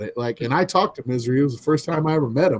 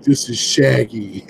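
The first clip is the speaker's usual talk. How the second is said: imitated announcement; 3 semitones lower, slower than usual. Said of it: "Shaggy's voice coming over that hotel fucking speaker".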